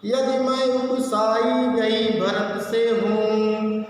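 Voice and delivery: slow, drawn-out chanted verse; verse recitation. Acted. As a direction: recite the poem in measured sing-song, stretching line ends. (धीमे, लयबद्ध स्वर में काव्य-पाठ)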